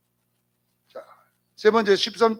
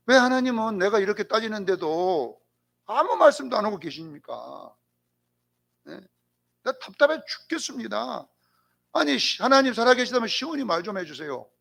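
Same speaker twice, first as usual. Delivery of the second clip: exasperated plea in a raised pitch; arguing with God; 3 semitones higher than usual. Retold or imitated. Job protests God's silence, exasperated and argumentative. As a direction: beg and demand an answer in Job's place. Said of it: "따지고 있는 거예요".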